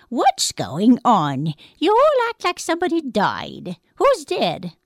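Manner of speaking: slow, eerie voice of a corpse, rising high; a dead man puzzled by his mourners; high, hollow ghostly asking; dead man's voice. Acted. Dead man back at home.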